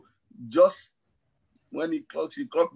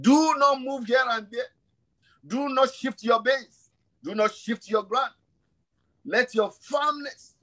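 emphatic preaching; 4 semitones higher than usual. Real, not acted. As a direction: press each phrase home to the congregation.

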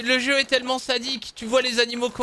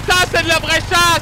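"ça, c'est de la vraie chasse!" shouted high, stress on "ça"; repeated louder; 6 semitones higher, 6 dB louder than usual. Real, not acted. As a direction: call it out again, much louder. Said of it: "Je disais".

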